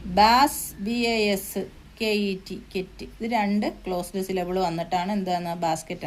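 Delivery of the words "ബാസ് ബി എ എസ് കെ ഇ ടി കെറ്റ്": ബാസ് and കെറ്റ് as separate syllables, letters slowly spelt; teacher's slow spelling of ബാസ് and കെറ്റ്, letter by letter. Shown as a demonstration. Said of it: "ബാസും ഉണ്ട്, കെറ്റും ഉണ്ട്".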